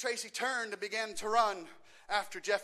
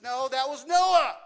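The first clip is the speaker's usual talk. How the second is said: exasperated correction; 5 dB louder, slower than usual. Retold or imitated. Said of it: "So the response is".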